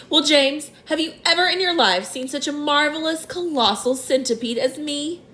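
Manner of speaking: high, gleeful show-off voice; boastful centipede. A narrator's reading. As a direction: brag to the boy. Centipede character voice.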